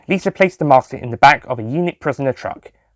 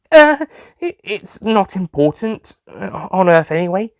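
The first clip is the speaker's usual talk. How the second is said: Lisa; 8 semitones higher, slower than usual. A narrator's reading. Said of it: "Lisa responded".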